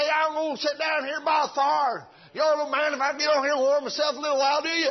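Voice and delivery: put-on Southern hick accent, loud and folksy; hick drawl. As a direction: holler it like a backwoods country fellow. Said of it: "that hick kind of language".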